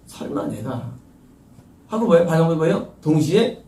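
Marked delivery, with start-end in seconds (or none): 0.1-0.9 low, hushed aside to oneself; disbelieving inner voice. Acted. A believer inwardly resisting correction, in a low doubting undertone. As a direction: voice a doubting thought, low and soft. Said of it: "반항하는 거에 대해서".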